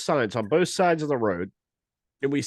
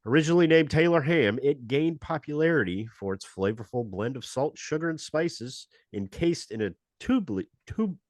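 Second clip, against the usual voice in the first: brisk announcer read of a history segment; radio show host. Acted. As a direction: present it like a radio history spot. Hosts the Stupid History Minute.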